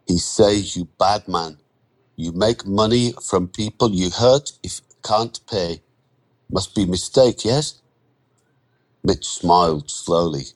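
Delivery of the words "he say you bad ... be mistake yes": lightly voiced anxious foreign worker; tentative foreign-accented voice, seeking reassurance at the end; uneasy Andre. Worker reporting an accusation to his lender, tentative.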